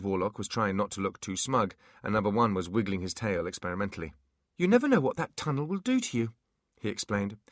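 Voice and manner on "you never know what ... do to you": high, eager little imp voice; bright nervous imp chatter. Acted. Imp character voice.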